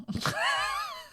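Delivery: sudden shrieking laugh; high burst of laughter. Real, not acted. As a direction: laugh out in high-pitched disbelief. Laughs at teacher's dismissal.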